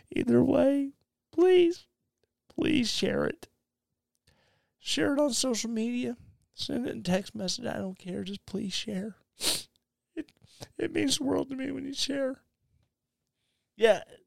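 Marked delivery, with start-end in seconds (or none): 0.1-12.3 put-on mopey sad voice, soft and high. Podcast host begging listeners to share the episode, in a fake sad voice. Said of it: "falling out of the sad voice".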